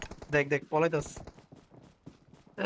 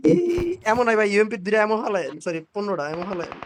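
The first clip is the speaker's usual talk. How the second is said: excited gamer; 3 semitones higher than usual. Real, not acted. Excited mid-fight exclamations.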